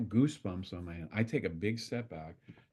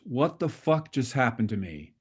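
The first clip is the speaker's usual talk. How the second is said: bewildered swearing; 3 semitones higher, 5 dB louder than usual. Retold or imitated. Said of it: "she swore like a".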